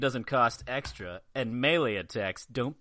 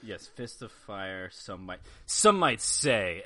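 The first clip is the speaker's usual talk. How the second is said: slow dramatic voice; 3 semitones lower than usual. Acted. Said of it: "it's gotta be in voice".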